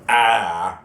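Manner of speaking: a strained open-throat "Ah" pushed from the voice; a loud "Ah" roared straight off the vocal cords; wrong way roar. Shown as a demonstration. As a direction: demo the voice-tearing roar you should avoid. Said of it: "So instead of going".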